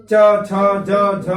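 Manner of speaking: teacher modelling palatal sounds; palatal letters demo. Shown as a demonstration. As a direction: hit च, छ, ज, झ one by one with the tongue on the palate. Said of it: "अब हम चलते हैं च पर".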